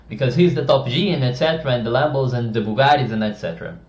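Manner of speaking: hammed-up loud Tate bravado; imitating Andrew Tate loudly. Coach mocking Andrew Tate's style to viewers, loud. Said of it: "and he speaks loudly".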